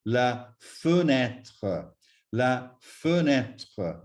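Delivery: "fenêtre" slowly, uh then an open eh; circumflex ê sound. Shown as a demonstration. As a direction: say "fenêtre" with no s and an open middle vowel. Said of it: "So we say".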